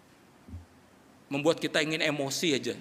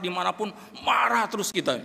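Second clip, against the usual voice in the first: seruan keras; 2 semitones higher than usual. Real, not acted. Khotbah memuncak soal marah.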